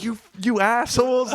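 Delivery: mock angry kid. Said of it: "like, mad".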